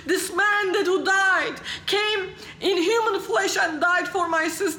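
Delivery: high, urgent acted plea; imitated tearful pleading. Weeping new believer begs to be taught, imitated pleading. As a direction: beg desperately, as a weeping convert would. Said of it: "he's crying and weeping".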